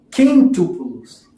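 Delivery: quintúplos slowly sounded out, accent on the U; careful pronunciation of quintúplos. Shown as a demonstration. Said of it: "Eu não gosto desse acento naquele U".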